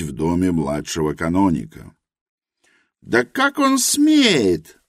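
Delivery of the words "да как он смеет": high, slow, indignant outcry; hot exclamation. A narrator's reading. Helena flares up at Edwin's name, indignant. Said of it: "воскликнула Елена с горячностью".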